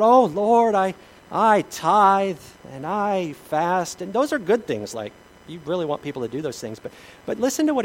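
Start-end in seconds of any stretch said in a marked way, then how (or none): 0.0-4.0 smug Pharisee prayer. Retold or imitated. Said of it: "he goes on about".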